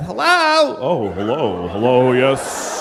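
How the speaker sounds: lightly voiced flustered hello; mock awkward greeting. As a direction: stammer out a polite hello. Acting out greeting the gay guy.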